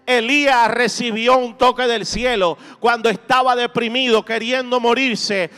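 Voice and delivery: impassioned preacher rallying the congregation; fervent preaching. Real, not acted. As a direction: preach with driving, rhythmic conviction, building through repeated phrases. Predica con fuerza ante la congregación. (prédica ferviente y enérgica)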